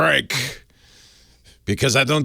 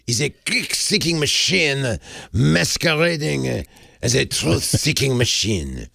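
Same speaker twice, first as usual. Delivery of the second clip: slow mock French accent; slow, hammed-up French accent quote. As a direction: lean into a hammy French accent. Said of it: "I gotta say that in a French accent".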